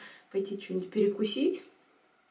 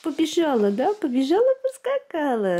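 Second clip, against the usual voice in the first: squeaky praising a dog; 7 semitones higher, 6 dB louder than usual. Real, not acted. Cheering baby's kicks.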